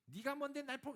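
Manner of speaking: cracked voice in a mock outburst; voice cracking. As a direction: push it and let the voice crack upward. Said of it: "목소리가 왜 이래".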